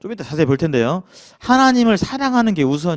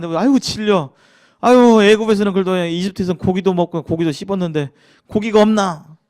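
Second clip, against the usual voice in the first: whiny grumbling; 3 semitones higher, 3 dB louder than usual. Retold or imitated. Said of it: "막 불평을 했어요".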